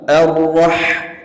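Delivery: "Ar-Rah" ending on a distinct throaty h; clear ha. Shown as a demonstration. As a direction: let the ha in "Ar-Rah" sound clearly. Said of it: "Dan jelaskan huruf ha".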